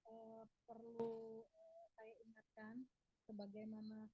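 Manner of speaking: choppy, faint connection dropping out; bad line, voice cutting in and out; breaking up audio. Real, not acted. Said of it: "suaranya putus-putus".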